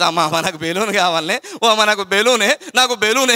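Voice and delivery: put-on pleading child's voice, rising; child begging for a balloon. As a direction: whine it like a small boy tugging at mom. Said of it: "అన్నాడు". (బెలూన్ కోసం అమ్మను బతిమాలే పిల్లవాడు, మారాం)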